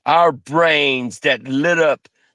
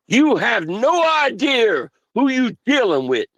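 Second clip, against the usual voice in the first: higher, menacing warning; raised-pitch threats; 5 semitones higher than usual. Real, not acted. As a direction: threaten them, voice up and tight. Threatening rant continues.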